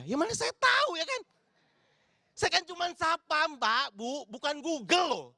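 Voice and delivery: mock-exasperated guard. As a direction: protest like it's absurd to ask you. Comic outrage at stranger's question.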